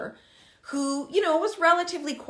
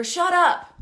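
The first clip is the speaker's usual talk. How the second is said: put-on disrespectful teen; 7 semitones higher, 6 dB louder than usual. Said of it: "a disrespectful response".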